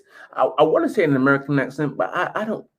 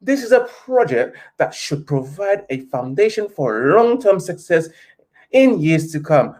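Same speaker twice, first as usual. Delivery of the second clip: posh British letter voice. Pretend. YouTuber reading the Glazer statement to fans in mock-posh British. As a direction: read it like a love letter, lightly posh. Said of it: "this is rich people talk right now".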